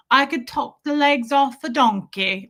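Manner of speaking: mock British accent, lightly put on; imitated British accent. Host quoting Ellie J's way of talking, imitated British accent. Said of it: "because she talks like this".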